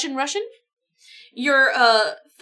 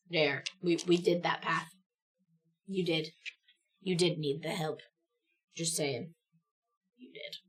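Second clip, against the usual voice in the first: smug teasing; 6 semitones lower, 9 dB quieter than usual. Acted. Teasing pilot who needed help.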